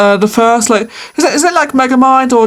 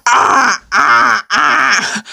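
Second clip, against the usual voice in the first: crow-like squawks; much slower than usual. Real, not acted. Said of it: "I sound like a crow".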